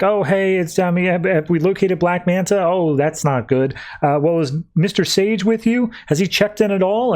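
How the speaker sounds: light mock-worried office voice; lightly voiced secretary.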